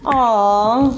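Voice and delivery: long, slightly lifted "aww"; acted swooning coo; touched aw. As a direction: melt at something sweet. Make women be like.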